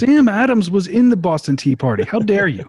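mock outrage. Mock outrage at losing points.

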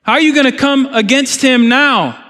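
preacher voicing what God's people should cry out, rising fervour; fervent rebuke. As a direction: press them hard with the question. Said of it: "saying, saying".

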